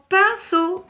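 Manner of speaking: "Pinceau" in two high, loud beats; syllable by syllable. Shown as a demonstration. Teacher checks the answer with children, syllable by syllable. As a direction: punch both syllables of "Pinceau". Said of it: "composé de deux syllabes".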